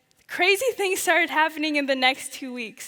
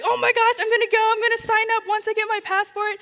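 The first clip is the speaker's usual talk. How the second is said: excited resolve; 7 semitones higher, 3 dB louder than usual. Retold or imitated. Excited decision to go.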